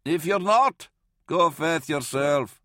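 high-pitched shouted retort; defiant calling out. Acted. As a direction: argue stubbornly through a closed door. Varl shouts back from behind hatch.

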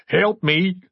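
high-pitched tearful begging; acted sobbing cry for help; sobbed plea. A narrator's reading. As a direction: plead as if breaking down. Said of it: "Jory sobbed".

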